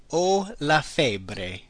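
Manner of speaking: very slow, soft repeat. Shown as a demonstration. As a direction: drag it out for learners. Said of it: "I have a fever".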